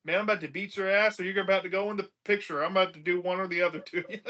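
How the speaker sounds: fast mock threat, lightly acted; mildly pissed off. Retelling a character about to fight, mildly pissed off. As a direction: rattle it off like a half-serious threat. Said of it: "he looks like he's getting pissed off".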